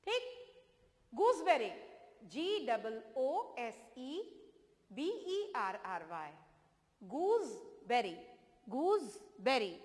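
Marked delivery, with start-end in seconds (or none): 2.3-6.3 slow, deliberate classroom spelling; dictating each letter slowly to children. Shown as a demonstration. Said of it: "spelling slowly for pupils". 7.0-9.7 drawn-out गूसबेरी, every syllable clear; teacher modelling गूसबेरी slowly; slow model word. Shown as a demonstration. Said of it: "teacher models word slowly".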